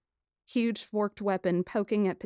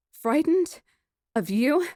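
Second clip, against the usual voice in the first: scoffing; 8 semitones higher, 6 dB louder, slower than usual. A narrator's reading. Heroine scoffing at him.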